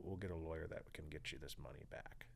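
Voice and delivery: hushed, unvoiced reassurance; whispered reassurance. Buddy reassuring the worried speaker, whispered. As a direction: whisper it like a secret promise.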